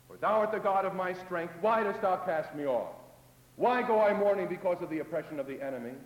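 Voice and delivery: praying aloud, pleading and rising to a loud cry; psalmist's lament. Acted. Preacher voicing the psalmist, loud pleading lament. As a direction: pour out the complaint to God.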